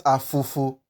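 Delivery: afofo with ordinary letter F sounds; afofo, f as in physics; wrong English f. Shown as a demonstration. Teacher warning learners, English f. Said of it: "You don't pronounce it as the letter F".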